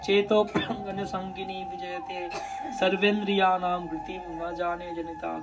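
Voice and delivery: measured, chant-like scriptural recital; Sanskrit verse recitation. Acted. Preacher reciting Rupa Goswami's verse to devotees, measured chant. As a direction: intone the verse evenly, line by line.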